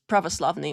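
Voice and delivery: pravoslavny said the Russian way, rolled r, stress on slav; pravoslavny in Russian pronunciation, pra-vo-SLAV-ny; Russian word. Shown as a demonstration. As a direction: say pravoslavny as a native Russian speaker would. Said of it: "'Cause in Russian".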